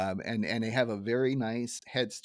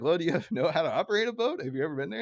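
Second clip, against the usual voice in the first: Ned Flanders voice; 5 semitones higher, faster than usual. Retold or imitated. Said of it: "it's like".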